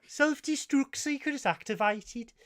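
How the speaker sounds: hammed-up starship computer warning; mock computer voice. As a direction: read it like the ship's computer. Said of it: "No, no".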